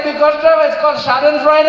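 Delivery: put-on high Indian-accented waiter explaining the prank. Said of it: "He's like".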